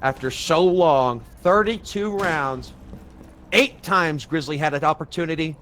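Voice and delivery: measured commentary with held pauses; suspenseful play-by-play. Real, not acted. Caster counts a long game's missed chances, suspenseful play-by-play. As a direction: hold back and let the suspense hang.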